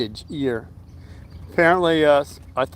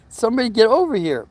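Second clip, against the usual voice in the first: retold urgent plea; 7 semitones higher, faster than usual. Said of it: "I said".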